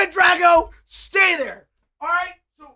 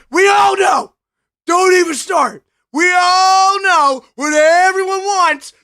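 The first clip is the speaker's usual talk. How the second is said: mock outburst; 3 semitones higher, 5 dB louder than usual. Fake-tearful shout at chat.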